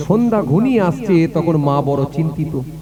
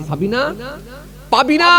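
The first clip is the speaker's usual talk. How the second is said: the second name flung out much higher and louder; called loudly; 7 semitones higher than usual. Retold or imitated. Father calling near the angry fisherman, loudly. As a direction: make the last call ring out. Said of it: "বলে জোরে দিয়েছে".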